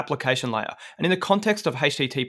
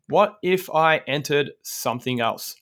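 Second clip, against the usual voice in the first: supervillain voice; slower than usual. Acted. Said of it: "You sound like a supervillain".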